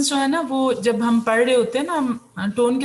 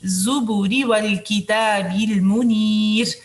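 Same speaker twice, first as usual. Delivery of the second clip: slow melodic tajweed recitation; Quran recitation; much slower than usual. Shown as a demonstration. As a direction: chant the verse slowly and evenly.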